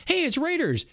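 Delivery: high, delighted recognition; light retold surprise; mock excitement. Recalling flipping channels.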